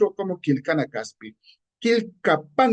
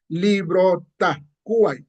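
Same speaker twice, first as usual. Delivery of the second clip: slow loanword version; much slower than usual. Retold or imitated. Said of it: "los que no saben gramática quichua dirán".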